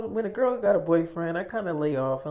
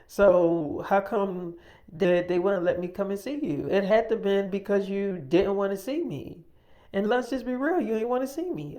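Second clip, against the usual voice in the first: higher-pitched accusing retold complaint; indignant; 4 semitones higher, 3 dB louder than usual. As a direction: press the grievance, imitating an indignant caller. Caller accuses him of avoiding her.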